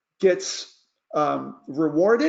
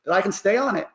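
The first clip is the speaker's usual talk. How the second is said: put-on higher, indignant teenager whine; teen complaining; 4 semitones higher than usual. Lightly voiced teen complaining to mom about being grounded. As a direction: sass the parent like a fed-up teen. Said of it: "They're like".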